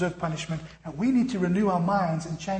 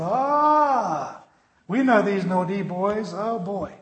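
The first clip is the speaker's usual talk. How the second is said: knowing teacher; 2 semitones higher, 4 dB louder, much slower than usual. Retold or imitated. Teachers recognise the family name.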